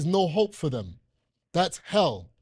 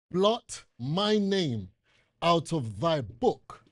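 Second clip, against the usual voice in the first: Moses pleading; much slower than usual. Retold or imitated. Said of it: "listen carefully".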